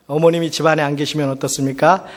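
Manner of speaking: ordinary talk, nothing marked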